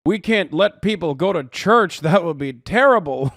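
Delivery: mock news anchor. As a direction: ham up a fretting newscaster. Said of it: "People in the media are always talking like this".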